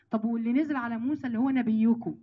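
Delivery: ordinary talk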